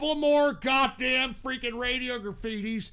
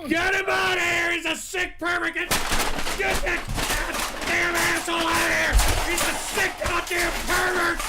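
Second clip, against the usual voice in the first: angry yelling; 3 semitones higher than usual. Real, not acted. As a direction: shout them off the air in disgust. Host yells at prank caller.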